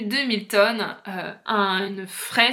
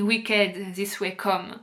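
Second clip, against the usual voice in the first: slow English, French accent; 2 semitones lower, much slower than usual. Real, not acted. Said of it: "désolée pour mon accent".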